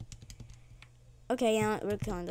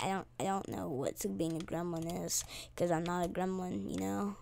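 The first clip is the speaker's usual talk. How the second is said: whispered aside; 5 semitones lower, 10 dB quieter than usual. Real, not acted. Mumbled aside.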